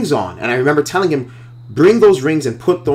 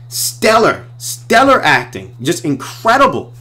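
excited praise; 6 semitones higher, slower than usual. Real, not acted. Praising actors' stellar performance.

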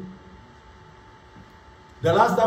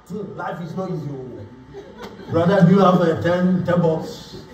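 mock whiny broke friend; 3 semitones lower, slower than usual. Pastor mimics a poor friend begging, half-laughing mock whine. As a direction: lightly mimic a broke friend moaning and cadging money. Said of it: "That's how you talk".

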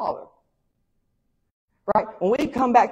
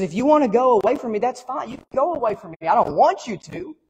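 a little higher and faster, letting the son go; father's gentle release; 4 semitones higher than usual. Acted. Preacher voicing God telling the son he may leave, a little higher and quicker. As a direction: speak as a father who won't hold him back.

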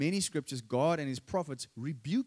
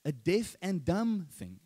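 raised, rebuking prophet's challenge; 6 semitones higher than usual. Retold or imitated. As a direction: call them out like a prophet. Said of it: "they use strong language".

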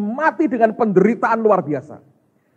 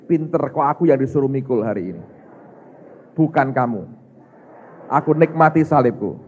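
sincere confession; 5 semitones lower than usual. Shown as a demonstration. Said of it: "Coba ngomong sebelahmu".

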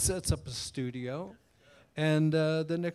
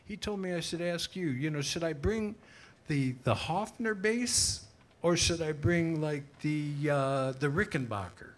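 a musician asking; 3 semitones higher, 3 dB louder than usual. Retold or imitated. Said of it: "He goes".

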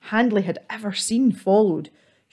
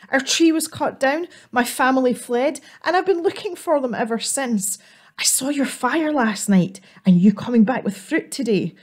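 higher, small and timid squirrel voice; a lost little squirrel, pitched up and pleading; 5 semitones higher than usual. Acted. Lost squirrel begging the troll for warmth, small higher voice.

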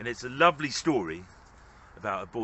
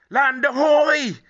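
long, drawn-out and much higher, loud; excited shout; 11 dB louder, much slower than usual. Acted. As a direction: yell it from the deck, thrilled. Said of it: "shouted Sid".

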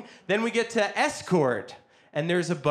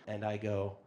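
ordinary delivery

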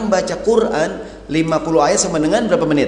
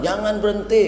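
mock yell; 5 semitones higher than usual. Wife retelling her protest to the ustadz, half-hearted mock yell. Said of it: "Saya teriaknya kenceng banget".

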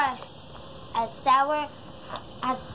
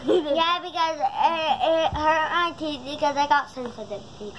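giggling through the words; laughing. Real, not acted. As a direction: talk while giggling. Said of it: "Sorry I was laughing so much".

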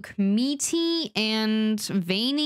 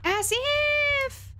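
high, scoffing As if. Real, not acted. Mocking the game, higher voice.

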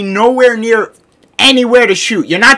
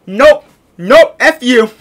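raised, louder mock refusal; game's mock refusal; 5 semitones higher, 4 dB louder, slower than usual. Player voices the game rejecting him, mock dismissive. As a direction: play the game brushing you off. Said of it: "the game just says".

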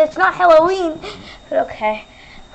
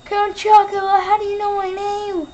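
Count Chocula voice; 7 semitones higher than usual. Acted. Count grandly announcing his own name to Luigi. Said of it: "it is I, Count Chocula".

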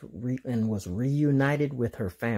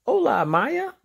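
high, louder call across the path; 13 semitones higher, 5 dB louder than usual. Acted. Diego calling out to the dinosaur Maya, a high, louder call. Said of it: "Diego called".

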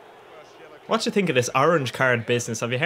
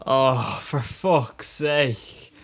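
exasperated; much slower than usual. Real, not acted. Exasperated at game.

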